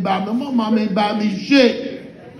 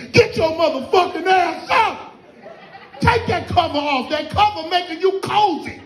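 higher-pitched hollering parent; mock hollering; 4 semitones higher than usual. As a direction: holler at a kid to get up. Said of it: "how I be hollering at her".

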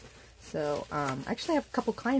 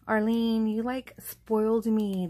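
overwhelmed thanks; 4 semitones higher, 5 dB louder than usual. Real, not acted. Thanking gift sender, overwhelmed.

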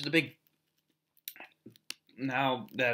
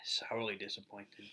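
whispered pun; 3 semitones lower, 12 dB quieter than usual. Real, not acted. Wordplay after tasting sour candy.

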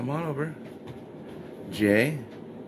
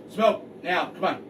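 calling from far away; 5 semitones higher, slower than usual. Real, not acted. Calling dog from distance.

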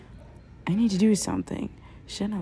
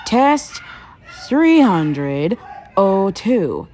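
shouted commands; 7 dB louder, much slower than usual. Acted. Test lab commands over action.

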